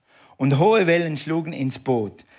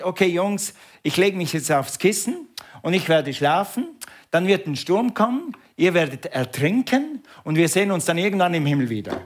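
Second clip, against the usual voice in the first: mock Jesus; 3 semitones higher than usual. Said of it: "Oder hat er sich das so vorgestellt".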